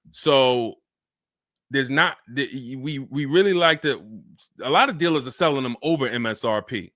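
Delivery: low-key, lightly voiced car salesman; understated salesman patter with hesitant pauses. Shown as a demonstration. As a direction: play the reluctant salesman, casually talking the buyer down. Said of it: "put my car salesman hat on".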